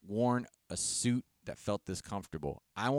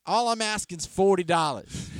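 high, loud pleading sales pitch; stranger hawking goods; 6 semitones higher, 6 dB louder than usual. Retold or imitated. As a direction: imitate a street seller pressing the deal. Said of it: "a gentleman came up to me".

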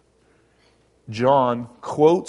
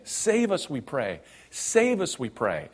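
mock crowd cry; 3 semitones higher than usual. Preacher echoing the crowd's cry, save pitched high. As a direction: save leaps high, then we pray drops back. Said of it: "by shouting, "Hosanna".

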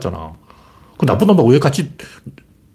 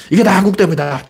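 mock blaming; 5 semitones higher than usual. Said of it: "한국이 제일 심해".

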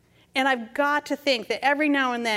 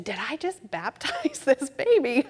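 laughing panic; 3 semitones higher than usual. Retold or imitated. Grandmother caught, panicked.

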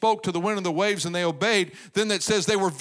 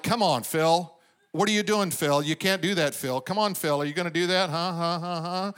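lightly voiced pestering inner critic; nagging inner voice. Inner voice nagging the preacher all the time, lightly mocking. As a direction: pester with a run of quick little questions. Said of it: "I got this voice that talks to me all the time. Drives me crazy".

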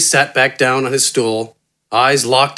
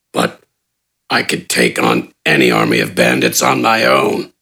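grudging brute. A narrator's reading. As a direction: agree reluctantly, deep. Gafgarn boasting.

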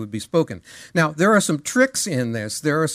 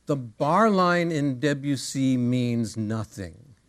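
quoted letter; 2 semitones lower, slower than usual. Retold or imitated. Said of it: "one of the things he says".

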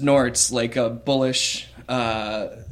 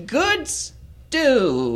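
high gnome voice, softer, trailing off; quieter gnome repeat; 12 semitones higher than usual. Acted. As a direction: mumble the compliment once more. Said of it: "Barry, pipes up and says".

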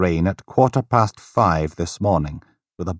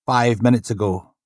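polite desk sergeant, a bit higher; lightly voiced desk sergeant; 5 semitones higher than usual. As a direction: greet him with polite formality.

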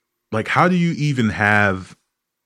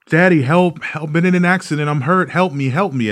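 higher, pleading mock girl voice; panicked girl; 7 semitones higher than usual. Comic imitates the scam girl on the phone: higher mock pleading. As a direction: beg daddy for help in a put-on cry. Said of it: "she's going".

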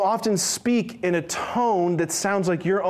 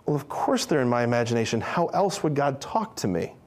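puzzled; 3 semitones lower than usual. Retold or imitated.

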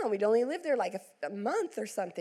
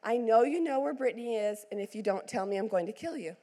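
sugary sweet with a hidden threat; syrupy mock-tender warning; mock sweetly. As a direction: sweet-talk him while threatening. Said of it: "just very, very sweetly".

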